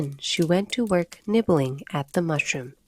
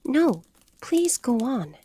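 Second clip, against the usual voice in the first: humble; 7 semitones higher, slower than usual. Acted. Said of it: "Alice said very humbly".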